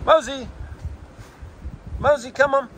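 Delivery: high calling voice across the field; calling the dog. Real, not acted. Owner calling dog Mosey across the park, high carrying call. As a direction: call the dog's name out high and long.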